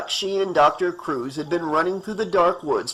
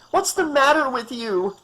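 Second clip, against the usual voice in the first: much higher, frantic cry; panicked woman crying at the doctor; 10 semitones higher than usual. Acted. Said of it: "Amanda cried".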